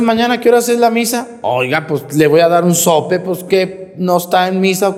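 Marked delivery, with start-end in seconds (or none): 0.0-1.3 mock parishioner. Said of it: "saliendo me llega una".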